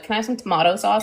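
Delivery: quick mock-Australian question; imitated Australian request. Canadian quoting Australians asking for ketchup, light Australian imitation. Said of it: "they call ketchup tomato sauce".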